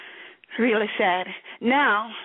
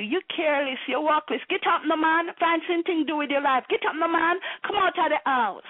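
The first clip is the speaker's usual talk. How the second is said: put-on nagging girlfriend; 5 semitones higher, faster than usual. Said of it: "a girl who telling you".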